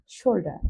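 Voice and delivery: "শোল্ডার" alone, final r silent; British pronunciation. Shown as a demonstration. Teacher repeating British "শোল্ডার" for learners, without the final r. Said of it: "ব্রিটিশরা উচ্চারণ করে শোল্ডার".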